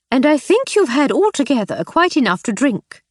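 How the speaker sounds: high, firm reproach; stern. Acted. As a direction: scold him.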